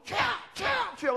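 high, loud cry to the Lord; demonstrated prayer cry; prayer shout. Shown as a demonstration. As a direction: shout it as an urgent plea. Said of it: "보통".

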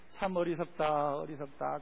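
mock scorn. Missionary mocks villagers.

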